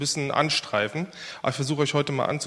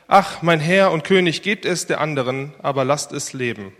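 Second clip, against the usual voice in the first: pleading cry; 5 dB louder than usual. Acted. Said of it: "Da rief die Frau".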